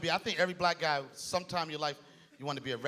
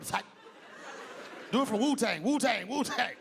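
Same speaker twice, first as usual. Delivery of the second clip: street voice back; 5 semitones higher than usual. Retold or imitated. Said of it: "a cool brother".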